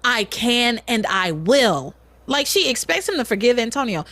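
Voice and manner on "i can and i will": slow, measured, firm retort; each word set down deliberately. Retold or imitated. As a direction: imitate a mother standing her ground. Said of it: "she says very firmly to him".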